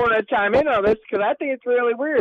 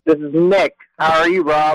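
loud, boomy, too close to the phone; swallowed voice; 3 semitones lower, 5 dB louder than usual. Real, not acted. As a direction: mouth right on the mic. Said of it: "it sounds like you swallowed your phone there".

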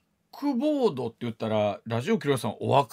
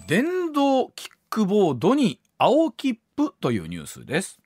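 measured radio news reading. Acted. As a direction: read it like a radio news item. Host reads news item over music. (ニュース原稿の読み上げ)

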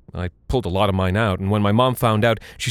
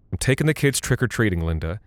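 calm and firm. Acted. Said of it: "very calmly".

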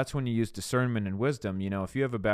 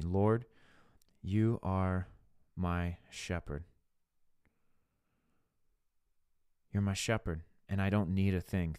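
earnest prayer; 2 semitones lower than usual. Shown as a demonstration. Speaker modelling a prayer closet talk with God, earnest prayer.

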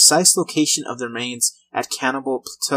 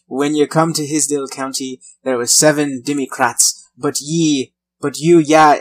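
put-on pirate Irish accent; 4 dB louder than usual. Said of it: "I feel, sound like a pirate".

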